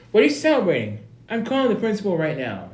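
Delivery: hammed-up indignant brother; mock angry yell. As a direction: shout the threat at him. Brother threatening to call principal.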